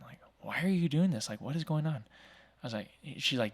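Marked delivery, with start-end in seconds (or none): 0.4-2.0 higher puzzled officer voice. Retold or imitated. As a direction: play the baffled cop questioning. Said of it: "the police officer's looking at me going".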